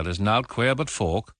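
slow, hammed-up Yorkshire accent; lightly imitating a Yorkshire accent. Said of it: "Good try".

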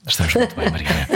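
high laughing greeting. Real, not acted. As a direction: laugh through the words. Host laughs greeting guest.

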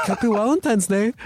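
quoting the gruff interviewer while cracking up; laughing imitation. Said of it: "He was like".

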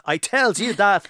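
drawn out, weighty I tells you that; slow repeat of "I tells you that"; slow emphatic. Shown as a demonstration. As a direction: lean on "tells", slow and falling.

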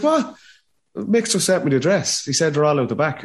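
high-pitched disbelief; incredulous protest. Retold or imitated. Arguing with a woman at the door over a party, incredulous.

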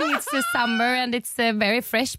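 awkward date small talk in heavy Swenglish. Retold or imitated.

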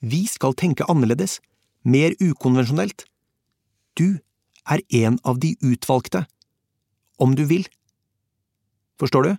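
a hint of a commanding admiral pitching a secret mission. Admiral voiced in audiobook.

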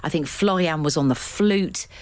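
put-on light German accent on every word. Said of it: "Note the German accent".

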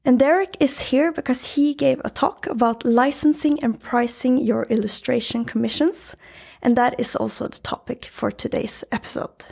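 room echo, meeting room acoustics; recorded in a small meeting room. Real, not acted. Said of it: "recording this episode in a meeting room".

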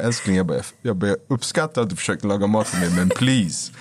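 measured, restrained plea to a partner; calmed down. Retold or imitated. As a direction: re-enact talking calmly after the outburst. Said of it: "efter jag lugnat mig".

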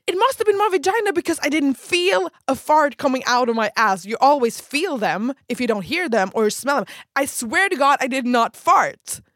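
high, loud pleading excuse; desperate insistence. Retold or imitated. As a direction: swear it wasn't a fart. Desperate excuse to laughing friends.

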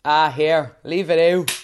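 broad Dublin slang delivery; real Dublin accent. Shown as a demonstration. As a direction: lay on the Dublin accent, playfully. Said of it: "You're gonna stay in that accent".

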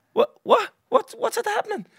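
rising incredulous what, what, what; stunned disbelief. Retold or imitated. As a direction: caught completely off guard, voice jumping up. Shocked at flight cancellation.

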